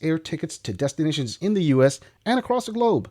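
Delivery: lively promotional read, pitch often lifted; sponsor ad read. Acted. Host pitching cheap flights to viewers, ad read. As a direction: sell it like a sponsor spot.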